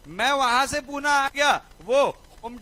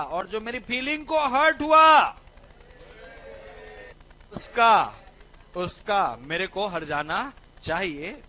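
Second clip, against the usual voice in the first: louder, indignant demand for compensation; mock angry girlfriend; 5 dB louder than usual. Girlfriend demanding payback for hurt feelings, mock angry outburst. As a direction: play the wronged girlfriend with a half-serious outburst. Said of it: "उसको ऐसा गुस्सा आया ना".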